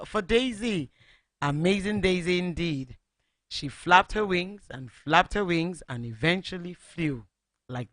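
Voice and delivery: put-on lively read-aloud for children; storybook narration. A narrator's reading. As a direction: tell it like a bedtime story to little listeners. Radio host reads story to children.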